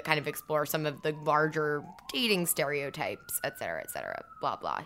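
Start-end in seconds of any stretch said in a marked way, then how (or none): 3.4-4.8 dismissive trailing off. Real, not acted. Dismissing her own rambling.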